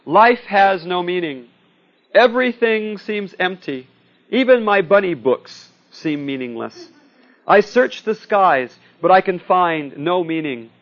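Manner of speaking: slow, mournful declaiming; mock existential anguish; hammed-up despair. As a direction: lament the emptiness with long drawn words. Snoopy despairs aloud on his doghouse.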